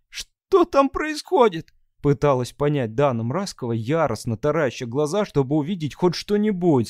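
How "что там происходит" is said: anxious tearful. Acted. Dana trying to see through tears.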